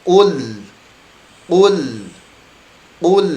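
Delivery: 'Qul' with lam kept light; correct qul. Shown as a demonstration. Teacher showing the right way to read qul. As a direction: repeat 'Qul' steadily, lam not heavy. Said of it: "Jadi bacanya bagaimana".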